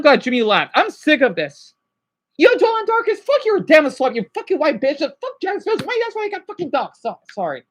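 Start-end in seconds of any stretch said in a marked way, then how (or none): 2.4-7.0 higher, fast angry snapping at viewers. Real, not acted. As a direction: lash out at named viewers. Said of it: "See, I'm snapping again".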